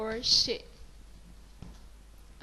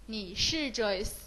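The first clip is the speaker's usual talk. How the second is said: slow model sentence. Shown as a demonstration.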